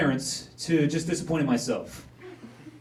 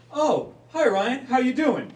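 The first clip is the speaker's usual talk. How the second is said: sweet receptionist; 11 semitones higher, 6 dB louder, slower than usual. Retold or imitated. Receptionist voiced, slow and high.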